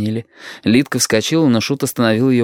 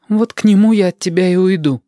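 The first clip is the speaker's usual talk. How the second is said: higher, louder, near tears; Lidka, defiant; 9 semitones higher, 4 dB louder than usual. Acted. Lidka tells Shut she is leaving him, defiant and near tears. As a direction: throw it at him through tears.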